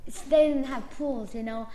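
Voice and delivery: ordinary delivery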